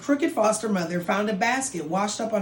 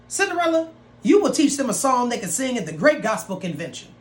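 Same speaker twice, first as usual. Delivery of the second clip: bossy foster mother; 3 semitones higher, 3 dB louder, faster than usual. Acted. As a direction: call her in like a bossy stepmother. Stepmother calls out orders.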